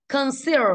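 conCEAL, weight on CEAL; stress on second syllable. Shown as a demonstration. Teacher showing the class word stress, CEAL stressed in Conceal. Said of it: "từ seal âm số hai".

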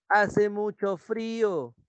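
high, drawn-out exclaiming, no real shout; mild exclamation. Shown as a demonstration. Teacher shows how you exclaim about cold, exclamatory tone. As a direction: stretch it out as an exclamation. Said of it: "tú gritas, ¿no?".

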